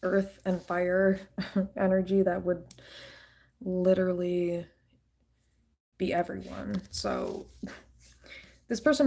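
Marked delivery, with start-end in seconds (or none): 3.6-4.7 breathy whispered word. Real, not acted. Whispered aside.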